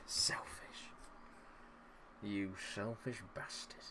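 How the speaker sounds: hissed under the breath; whispered insult. Real, not acted. Gamer whispering scorn at his own striker. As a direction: breathe out the word in disgust.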